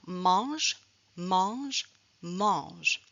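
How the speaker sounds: teacher's model "mange" with clear final consonant; final G sounded. Shown as a demonstration. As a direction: hold the zh at the end of "mange", silent E. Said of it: "la consonne G".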